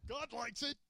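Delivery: softly whispered aside. Real, not acted. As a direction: hush it like a secret. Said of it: "tell you that quietly".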